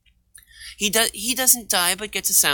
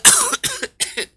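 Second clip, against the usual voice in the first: weird high cough; 3 dB louder than usual. Real, not acted. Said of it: "that was weird, sorry".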